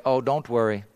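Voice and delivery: low, soft imitation of a kindly man; quietly forgiving, as retold; gentle reassurance. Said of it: "he said it with a gentle heart".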